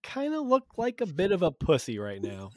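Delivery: hammed-up mocking advisor voice; mock taunting advisor. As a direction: taunt him like a smug courtier.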